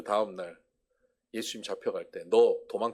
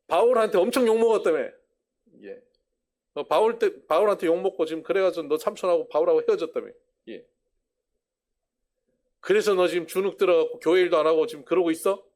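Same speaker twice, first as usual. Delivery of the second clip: blunt teasing; 5 semitones higher, 6 dB louder than usual. Acted. Peter confronts Mark loudly.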